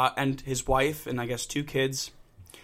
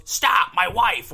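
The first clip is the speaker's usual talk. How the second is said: loud, high, stretched-out mimicked yell; retold shout; 7 semitones higher, 6 dB louder, much slower than usual. Husband yelling at a driver near his wife, shouting. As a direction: imitate a protective husband yelling, slowed down.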